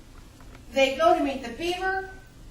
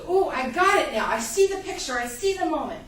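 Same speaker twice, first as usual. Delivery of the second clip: aha moment; 2 semitones higher, 4 dB louder than usual. Acted. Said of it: "It's the aha moment".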